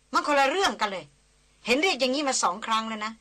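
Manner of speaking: lightly voiced Christina, testy and sharp; irritated young woman. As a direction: snap back at the guide, annoyed and proud.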